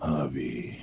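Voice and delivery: hushed, slow whispered name reveal; dramatic whisper. Acted. Host whispering a viewer's name dramatically. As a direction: breathe the name like a secret.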